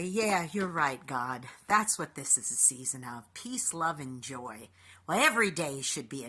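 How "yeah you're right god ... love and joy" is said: calmed prayer. Retold or imitated. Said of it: "I had to take a breath and say".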